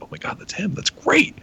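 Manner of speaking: imitating a gasping, high-pitched discovery; amazed realization. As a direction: squeal it like you just found out. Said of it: "I was like".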